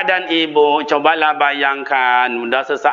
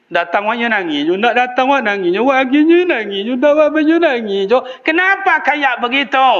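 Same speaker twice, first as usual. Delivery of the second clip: hammed-up whining of a nagging elder; mocking whiny parent; 10 semitones higher than usual. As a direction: imitate a complaining old parent, pitched way up. Mimicking whiny old parents.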